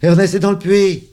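high, loud alarm call; shout. A narrator's reading. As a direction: yell the news up to the window. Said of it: "Et la puce crie".

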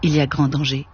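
measured audiobook reading voice; story narration. A narrator's reading. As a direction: read the novel aloud, steady and composed. Reads a novel aloud.

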